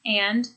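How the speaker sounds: "And" said flat, without a questioning lift; bored, dismissive "And"; flat, disinterested. Shown as a demonstration. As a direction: say "And" as if you want them to stop. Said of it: "flat sort of falling intonation really indicates disinterest".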